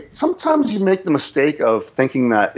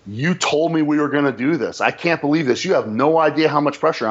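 mild mock outburst, pitched higher; retold raised voice; 4 semitones higher than usual. Salesman losing it at a client over a broken promise, retold raised voice. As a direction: re-enact losing it without really shouting. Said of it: "having my decibels get louder and louder".

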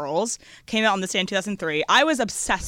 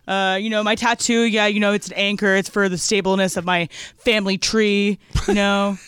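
IPA guy impression. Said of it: "that's my I P A guy impression".

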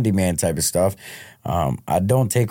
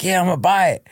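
retold excitement; 9 semitones higher, faster than usual. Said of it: "I was like".

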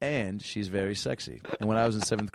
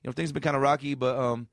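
lightly higher dude calling a dedication show; a hint of a laid-back guy shouting out his girl; mock radio caller; 4 semitones higher than usual. Caller on a late-night love-songs show, mildly mocked higher voice. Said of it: "it's like a guy being like".

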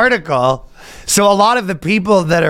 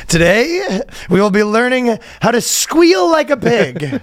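preacher voice; 6 semitones higher than usual. Pretend. Mock sermon continues.

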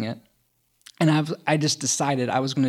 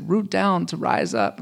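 slow, higher, mocking the instructor's phrase; mocking yoga instructor; 4 semitones higher, slower than usual. Veteran mocking his yoga teacher's instruction, slow and sneering. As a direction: parrot her yoga line with a sneer, slowly. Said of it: "she's saying stupid things like".

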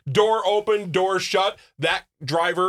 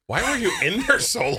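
lightly hammed-up higher-pitched complaint; impatient diner, imagined; 7 semitones higher than usual. Teasing friend imagines Sammy waiting at the table, mock impatient. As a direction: imitate someone calling out from the table, higher. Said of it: "Sammy's at the table sitting there going".

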